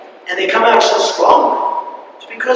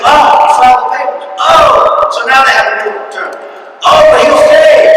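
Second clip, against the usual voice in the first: mocking pundits; 3 semitones higher, 4 dB louder than usual. Mocking what everyone says.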